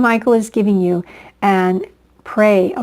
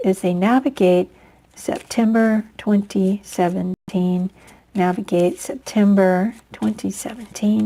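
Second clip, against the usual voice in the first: prayerful invocation. Real, not acted. Tarot reader calling angels for Capricorns, hushed prayer.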